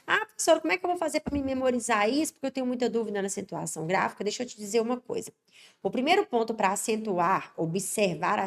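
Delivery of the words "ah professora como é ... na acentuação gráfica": teacher lightly imitating a worried student; mock worried student. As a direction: play the student asking for help, rushing the question.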